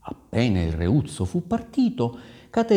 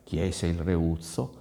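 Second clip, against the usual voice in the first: usual speaking voice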